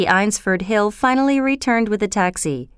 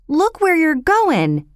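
higher, drawn-out Cockney protest, mildly raised; Cockney shout; 8 semitones higher, slower than usual. A narrator's reading. Flower girl to the man who knocked her basket, Cockney shout. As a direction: call out crossly in a Cockney accent. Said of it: "shouted at him in her thick Cockney accent".

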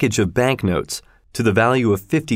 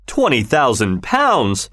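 cried out; 3 semitones higher, slower than usual. Acted. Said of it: "cried Mister Sullivan".

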